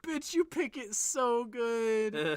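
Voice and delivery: slow, drawn-out praise; mock admiration. Comedian praising her nose picking, slow mock admiration. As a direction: stretch it out with over-the-top appreciation.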